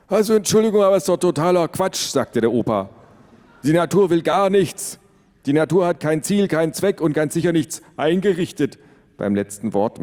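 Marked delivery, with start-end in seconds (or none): 0.1-2.1 put-on high, loud, fast old-man protest; grandpa objecting. A narrator's reading. Grandpa protesting to the family, high and loud. 3.6-8.8 higher, louder grandpa lecture; grandpa lecturing. A narrator's reading. Grandpa correcting dad about nature, higher and insistent.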